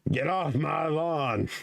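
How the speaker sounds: slow, drawn-out mock scolding; cranky neighbour. Joking as a cranky neighbour at kids, mock scolding. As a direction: play the grouch warning off trespassers.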